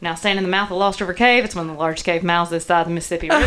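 Southern US accent as a cave tour guide; strong Southern accent. Shown as a demonstration. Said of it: "I can do a real strong Southern accent".

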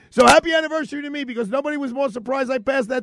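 high, fast, loud burst of triumph; celebratory sign-off. Real, not acted. Host closing the show on his anniversary, celebratory.

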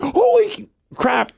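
high, slow mock alarm; retold shock. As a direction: draw it out high, re-enacting shock. Re-enacting shock at two pops.

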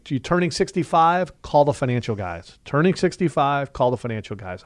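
punchy ad slogan, repeated twice with a lift on sixty-five; catchy promo read; slogan pitch. Shown as a demonstration. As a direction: sell it like a radio tagline. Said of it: "Like that?".

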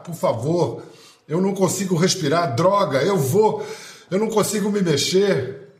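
begging for breath, rising to panic; collapsed on floor. Acted. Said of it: "As palavras de Floyd".

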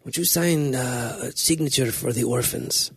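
slow, lightly put-on voice of a wrestler begging a favor; mock-pleading for the orphans, slowly; Jack Black impression. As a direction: drag it out like a hammed-up wrestling priest. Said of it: "I had to hear Jack Black say it".

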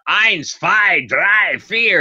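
high, punchy count-in shout, imitating a singer; mock count-in. Retelling a singer's onstage count-in, high and punchy. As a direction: call the count like a bandleader kicking off a song.

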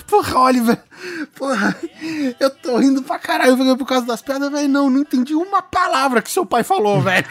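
a friend still laughing too hard to breathe. Retold or imitated. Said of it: "Ele falou".

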